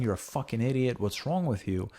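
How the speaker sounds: mildly voiced scolding; mock a berating father, understated; hate speech. Father putting down his son, mild mock hate speech. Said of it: "rather than hate speech".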